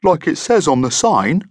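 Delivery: helpful monster prompting the applicant; friendly monster, uncertain. A narrator's reading. Monster figure in narrated story.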